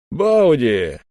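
high-pitched, curious greeting; interested. A narrator's reading. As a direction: greet a visitor with lively curiosity. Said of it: "с интересом спросил он".

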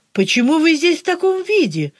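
nasal, nose pinched shut; with a broken nose. A narrator's reading. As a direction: speak holding a bleeding nose. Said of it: "загнусавил Ляпсус".

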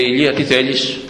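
a lightly changed voice for God, calm question. Retold or imitated. Preacher voicing God asking Elijah what he wants, lightly acted. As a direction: ask it as God speaking down to the prophet.

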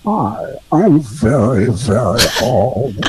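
put-on slow voice-changer old man; elderly voice. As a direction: drag out very old. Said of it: "here's one elderly".

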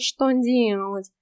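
snooty bored cat. Acted. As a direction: snort it back, unimpressed. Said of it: "фыркнул кот". (кот лениво фыркает)

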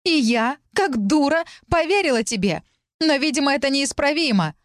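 put-on a dragon faking a jealous girl's outburst; jealous shout. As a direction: hurl the accusation pitched high. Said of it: "выкрикнул дракон моим голосом".

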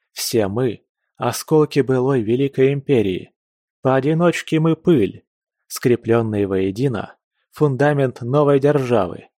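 a touch of a rousing orator; rally the crowd with rising fervour; fiery revolutionary speech. Acted. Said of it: "прервал зажигательную речь".

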